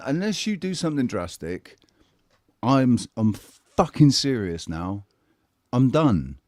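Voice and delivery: desperate ultimatum to God. Retold or imitated. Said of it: "I'd said to God".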